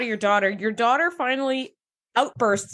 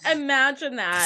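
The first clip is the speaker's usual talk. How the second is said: drawn out, slower, dry; slow sarcasm; slower than usual. Retold or imitated. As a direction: let the irony sink in. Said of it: "I was like".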